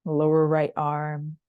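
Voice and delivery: unhurried yoga body-scan voice, long pauses between phrases; calm, spacious meditation cueing; guided meditation. Real, not acted.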